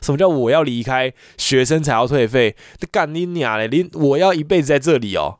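real anger spilling over into swearing; really angry. Real, not acted. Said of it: "我真的很生气".

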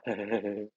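retold goofy giggle, mild; silly giggle. Recounting the caller's goofy giggle, mild giggle. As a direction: imitate his silly hehehe giggle. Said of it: "就傻傻的笑".

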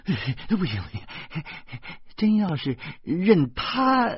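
startled woman protesting; alarmed cry. A narrator's reading. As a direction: object in alarm, voice lifted. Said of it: "我老婆便惊叫起来说".

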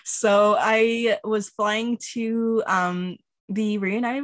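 muffled, stuffed-up voice from covid; talking through a blocked nose; stuffy nose. Real, not acted. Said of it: "If I sound very muffled or a little bit stuffy".

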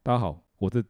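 thick-tongued lisp; lisping impression. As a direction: mimic a classmate's lisp. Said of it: "我模仿他大舌头讲话".

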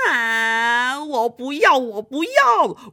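loud petulant no, no; whiny refusal. Acted. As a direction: stamp your foot and refuse. Refuses to stay a prince.

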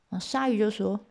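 plain reading voice

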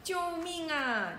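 high, slow, lightly played cry; a storybook cry for help; mock shriek for help. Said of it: "妈妈尖声喊着". (妈妈轻轻地尖声呼救)

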